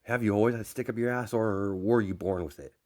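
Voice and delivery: mild scoffing jab; lightly acted sneering question. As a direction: toss it out as a taunt. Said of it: "as Bakugo scoffs".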